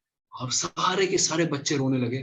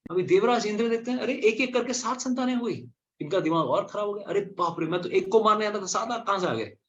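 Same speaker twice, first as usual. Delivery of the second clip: alarmed Indra; 6 semitones higher than usual. Acted. Indra's panicked thoughts voiced.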